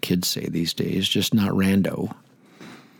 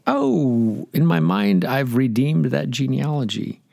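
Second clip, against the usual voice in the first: mock excited realization; 6 semitones higher, 3 dB louder, slower than usual. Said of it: "and you go".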